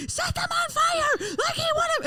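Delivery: high, bossy imitation of the sister. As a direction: mimic her commanding, high-pitched. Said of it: "Jamie just being type A personality and just being like".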